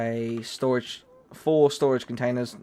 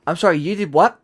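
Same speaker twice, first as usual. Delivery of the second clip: high, loud disbelieving laugh; laughing in shock; incredulous; 5 semitones higher, 5 dB louder than usual. Real, not acted. Friend opened monster hole.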